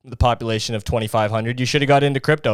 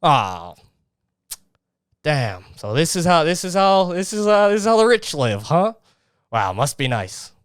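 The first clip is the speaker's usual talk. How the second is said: high hammed-up awed voice; aw shucks guy; 5 semitones higher than usual. Mocking the aw shucks guy who envies the rich in a high whine. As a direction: gawp at the rich in a high mock voice. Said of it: "aw shucks kinda guy".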